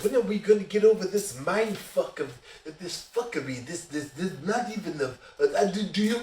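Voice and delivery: hammed-up defiant taunting of the table; mock Jacques rant. The maskless Frenchman ranting at the players, mock indignant. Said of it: "Jacques goes off on a fucking tangent".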